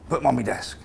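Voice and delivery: hammed-up northern English accent; comedy northern accent. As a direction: play a gruff northern boss, northern accent. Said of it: "in his comedy northern accent".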